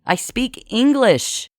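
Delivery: put-on mournful girl insisting she speaks English; dolefully. A narrator's reading. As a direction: plead it sadly and slowly. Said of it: "adding dolefully".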